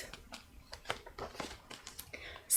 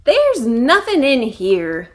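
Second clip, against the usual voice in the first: a louder complaint from a raccoon; complaining; 2 semitones higher, 6 dB louder than usual. Acted. Hungry raccoon Stumpy complaining about the empty bin. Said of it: "complained Stumpy".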